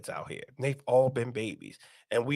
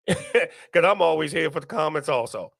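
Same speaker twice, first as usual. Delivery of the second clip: chuckling through the line; laughing. Real, not acted. Streamer admitting to viewers he's here for comments, laughing. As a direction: laugh as you confess it.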